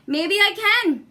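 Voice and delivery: high, loud sly teasing; cheeky boy. Acted. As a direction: tease the woman slyly. Jack cheeky reply.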